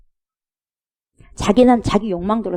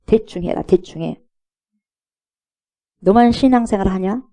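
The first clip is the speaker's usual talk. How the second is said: sneering taunt at the zealous; mocking scoffer. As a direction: jeer at the believer. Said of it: "하고 비웃어요".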